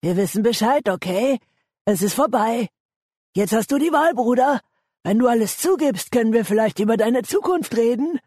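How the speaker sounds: high-pitched, coaxing fake kindness; falsely friendly. A narrator's reading. Engo coaxes Ben to confess, falsely friendly. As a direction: lull him with false friendliness. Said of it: "mit falscher Freundlichkeit einzulullen".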